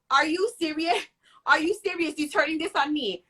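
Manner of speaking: high disbelieving retort; can't believe she's blaming you; incredulous. Retold or imitated. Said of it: "I'm like".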